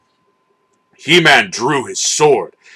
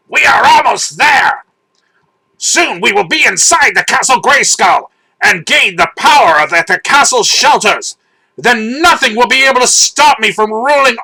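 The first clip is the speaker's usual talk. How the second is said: foul villain voice; 11 semitones higher than usual. A narrator's reading. Villain gloating to his panther about the castle, high evil sneer. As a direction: gloat over the castle like a skull-faced tyrant. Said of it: "His foul voice hissed".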